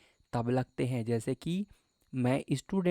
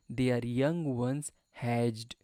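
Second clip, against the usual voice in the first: slow reading; 2 semitones lower, much slower than usual. Shown as a demonstration. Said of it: "Their मतलब मैं क्या बताया".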